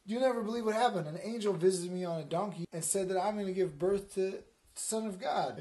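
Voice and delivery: high, loud rush of news; acted breathless-to-tell excitement; excited news. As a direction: burst out with it to a husband. Mary breaking news to Joe.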